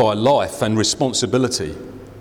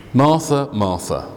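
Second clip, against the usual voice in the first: gentle rebuke. Retold or imitated. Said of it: "The Lord answered".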